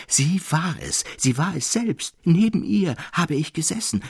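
loud lament. A narrator's reading. Traugott in the thicket, lamenting loudly over Felicitas. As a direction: cry out your despair to the bushes, pitched high. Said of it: "laut klagend".

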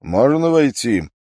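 a lightly voiced general calling through the door; a husband asking leave to enter, lightly played. A narrator's reading. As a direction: ask to come in from the next room. Husband calling from next room.

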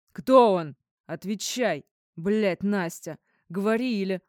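loud, furious demands; husband yells at his ex pinned against the wall; jealous roar. A narrator's reading. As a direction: bark the questions at her. Jealous interrogation.

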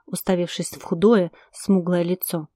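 ordinary delivery

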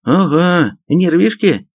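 high-pitched amused taunt; mocking snicker. A narrator's reading. Major taunts the shrieking sergeant, scoffing. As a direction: needle her with a little scoff. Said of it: "хмыкнул майор".

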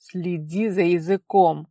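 hissing warning. A narrator's reading. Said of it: "прошипел отец".

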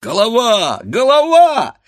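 very high, loud cry of warning; piercingly high shout; alarmed shouting. A narrator's reading. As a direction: yell a panicked warning to your mates. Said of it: "закричали хлопцы".

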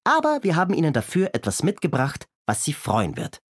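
put-on high, bright boyish puppet voice; cheeky Kasperl. Kasperl answers the constable, cheery and high. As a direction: play the cheerful young rascal, pitched high.

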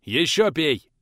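harsh order. Acted. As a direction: hit ещё hard. Teacher forces more drink.

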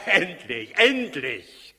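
laughing, gloating relief; relieved laugh. Acted. Herodes hearing of the returned camels, relieved laughter. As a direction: laugh out the word in triumph.

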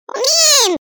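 very high, very loud screech; a shrieking one-word blast that hurts the ears; piercing ultrasonic shriek. Acted. Creature Garkhov answers aloud in a piercing shriek. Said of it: "визга".

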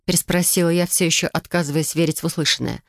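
plain reading voice

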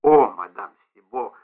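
mildly hurt protest, stretch the О; understated wounded cry to the concierge; shocked exclamation. A narrator's reading. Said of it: "воскликнул Понс".

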